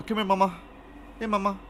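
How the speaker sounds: mock parent sweet-talk; parent cooing. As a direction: coo it to a little girl. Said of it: "some people like to call their little girl mama".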